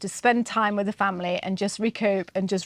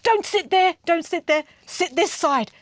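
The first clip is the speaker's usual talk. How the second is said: higher, imitated fussy grandad; fussy scolding; 6 semitones higher than usual. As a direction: rap out orders as a fussing grandad. Grandad fussing over where kid sits.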